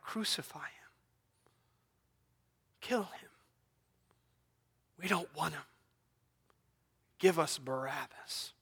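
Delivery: near-whispered imitation of the crowd; grave, hushed retelling of a shout; hushed crowd quote. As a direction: quote the mob's cry very softly, with long pauses. Voices the crowd in hushed horror.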